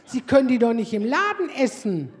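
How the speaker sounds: loud indignant hallo, then loud scolding; saleswoman scolding. Retold or imitated. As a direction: call her out across the shop. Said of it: "Dann sagt die Verkäuferin".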